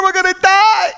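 high shouted wail; hammed-up panic shout; terrified cry. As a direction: scream it like the boat is going down. Disciples crying out in the storm.

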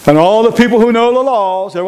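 ordinary talk, nothing marked

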